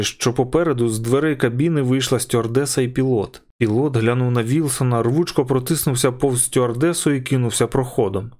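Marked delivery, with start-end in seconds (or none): none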